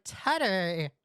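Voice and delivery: "Teddy" drawn out with a falling end; imitating his "Teddy". Streamer mocking the way he says a name, imitated "Teddy". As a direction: mimic his stretched "Teddy". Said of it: "the way he says Teddy".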